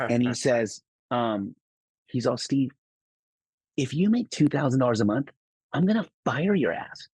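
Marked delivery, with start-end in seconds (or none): 2.4-7.1 mock boss threat. Boss mocking the new guy's salary ask. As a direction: tease him like a boss about to fire him.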